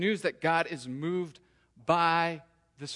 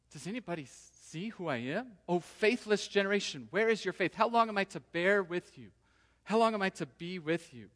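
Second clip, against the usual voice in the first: mildly exasperated string of questions; a touch of exasperation, acted; 2 semitones higher than usual. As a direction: plead with a faithless crowd, a bit fed up. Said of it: "And he's a bit exasperated".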